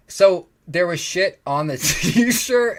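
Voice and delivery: stifled laughter, slow and strained; fighting back a giggle; trying not to laugh. Real, not acted. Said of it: "I'm trying not to laugh".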